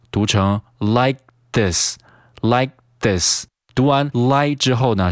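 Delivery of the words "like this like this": "like this" with the k held silent; slow "like this", no k burst; unreleased K. Shown as a demonstration. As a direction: stop the k in "like", go into "this". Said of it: "失去爆破".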